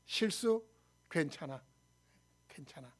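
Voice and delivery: very soft, low comforting words; soft reassurance. Acted. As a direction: murmur it low to console someone. Comforting someone after a mistake. (나직이 다독이는 말투)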